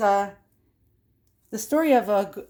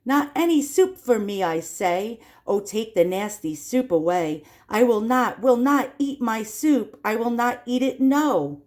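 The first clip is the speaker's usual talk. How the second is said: put-on whiny child; 2 semitones higher than usual. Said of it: "the naughty fellow cries out still".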